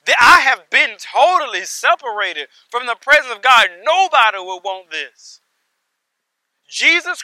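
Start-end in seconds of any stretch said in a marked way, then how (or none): 0.0-5.4 urgent plea, raised and emphatic, lightly acted; loud stressed words in a mildly acted warning from hell; rich man in hell. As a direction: preach the lightly voiced plea of a condemned man. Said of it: "rich man who is in hell speaking".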